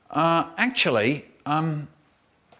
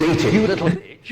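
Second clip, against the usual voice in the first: louder, mock-angry mother; mum scolding; 5 dB louder than usual. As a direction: bark it at the kid like a fed-up mum. Mum scolding child in parody story.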